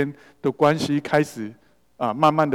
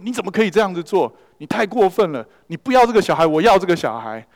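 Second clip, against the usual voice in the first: raised, louder rebuke rising to a near shout; angry rebuke; 4 semitones higher, 4 dB louder than usual. Retold or imitated. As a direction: scold the father hard, voice climbing high. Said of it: "就大声的指责说".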